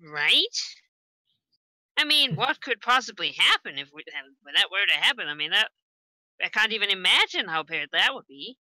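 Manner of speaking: high, loud mock-innocent question; sarcastic. Player sarcastic character, loud high.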